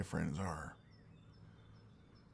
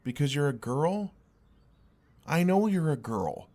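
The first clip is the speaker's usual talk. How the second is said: higher and louder, incredulous then firm; exasperated outburst; 4 semitones higher, 5 dB louder than usual. Acted. Baffled friend protesting in the argument, loud exasperation. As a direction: blurt it out, baffled and fed up. Heated argument over being a girl.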